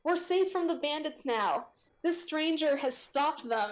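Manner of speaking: villager yell. Acted. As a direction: announce relief to the crowd. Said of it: "someone yells out".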